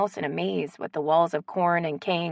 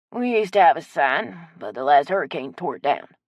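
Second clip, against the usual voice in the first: put-on old Cajun man; 3 semitones lower, 4 dB louder than usual. Old man Chet voiced.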